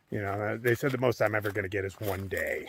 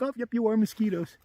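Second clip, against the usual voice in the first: high, louder self-quote; mock realisation; 11 semitones higher, 7 dB louder than usual. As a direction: replay your reaction in a raised voice. Acts out own reaction to mosquitoes.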